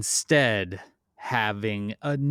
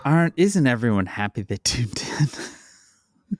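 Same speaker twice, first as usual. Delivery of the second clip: sarcastic whisper. Real, not acted. Dry joke to listeners after sigh.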